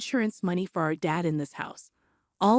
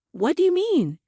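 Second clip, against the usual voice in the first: sharply raised, higher pitched question; 8 semitones higher than usual. Acted. Sister demanding an answer from her sibling, raised voice. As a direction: push the question up and out, indignant. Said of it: "She raised her voice".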